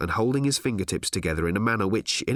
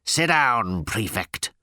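firm command to sit; sharp order; much slower than usual. Acted. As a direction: order him down curtly. Boss orders Ford to sit.

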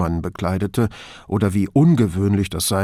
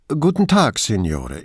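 the engineer Pivato greets stiffly; official caller. Acted. Brunetti posing as an official on the phone, formal greeting. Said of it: "Hier spricht Ingegnere Francesco Pivato".

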